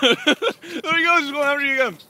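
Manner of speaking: loud, high excited shout; excited yelling. Real, not acted. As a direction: yell it out, thrilled, half laughing. Bird chases friend, laughing.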